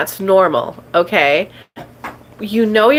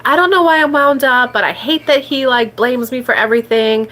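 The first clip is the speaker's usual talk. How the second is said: wound-up self-talk; 3 semitones higher than usual. Shown as a demonstration. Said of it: "That's a downward spiral".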